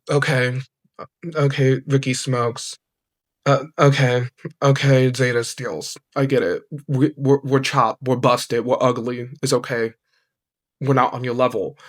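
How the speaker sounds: low, deflated acceptance of an insult; mock resignation. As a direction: concede it in a low, sullen tone. Mock acceptance of being called chopped.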